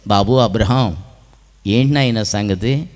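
low, soft fatherly question; gentle questioning. Acted. The Lord asks weeping Abraham what is wrong, low and gentle. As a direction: ask a little tenderly, voice dropped.

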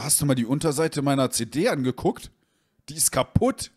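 indignant. Retold or imitated. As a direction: confront him, voice climbing. Confronts friend over broken CD.

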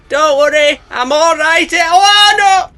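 high, loud, chirpy then panicked; cheerful until sudden doom; cheery snake voice. Acted.

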